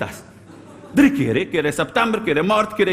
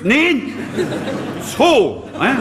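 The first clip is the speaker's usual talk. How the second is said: mock teacher outburst; 6 semitones higher, much slower than usual. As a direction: snap the right answer back at him. Teacher correcting wrong answer.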